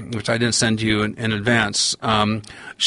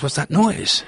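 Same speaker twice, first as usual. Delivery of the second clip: put-on puzzled old man; 5 semitones higher than usual. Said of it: "and he goes".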